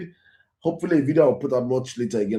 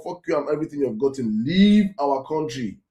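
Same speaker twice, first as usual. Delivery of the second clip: mock hostile dismissal. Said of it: "and they will say".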